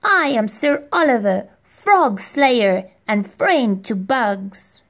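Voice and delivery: put-on boy knight proudly announcing his title. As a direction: puff up like a pint-sized hero. Boy knight proclaiming himself.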